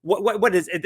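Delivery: high-pitched indignant halfling; fussing, annoyed. Acted. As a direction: sputter and stumble in exasperation. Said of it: "fussing at a lady".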